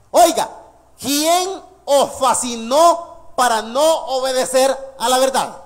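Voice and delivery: loud Oiga, then slow, searching question; pointed rhetorical question. Acted. Preacher as Paul challenging the Galatians with a slow question. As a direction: press the question home. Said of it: "oiga cómo le dice a los Gálatas".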